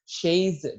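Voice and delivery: crisp French "Chaise"; French pronunciation. Shown as a demonstration. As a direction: give "Chaise" its French sound.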